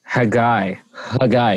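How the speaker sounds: Haggai with a throaty h, like hey guy; guttural Haggai. Shown as a demonstration. Co-host teaching the name's pronunciation, guttural Haggai. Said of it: "You have to have the guttural sound on the".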